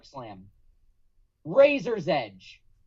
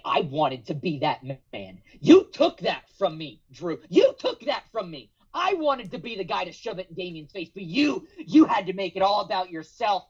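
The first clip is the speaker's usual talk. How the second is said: angry Finn promo. Acted. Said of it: "and he's pissed".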